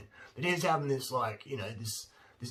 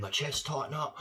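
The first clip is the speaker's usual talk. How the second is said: higher voice, then gasps; mock panic; 5 semitones higher than usual. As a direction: fake an anxiety attack with gasping. Mimics panic at sugar.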